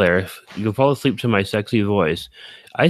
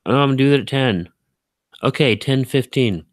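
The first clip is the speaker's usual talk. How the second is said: high, fast, carefree excuses; mock your own casual delays; breezy self-mockery; 6 semitones higher than usual.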